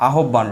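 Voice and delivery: "আহ্বান" said as a-hob-ban; common spelling pronunciation. Shown as a demonstration. Teacher quoting how people often say it, spelled-out pronunciation. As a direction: say "আহ্বান" with h and double b. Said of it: "যেমন আমরা অনেক সময় বলি কি".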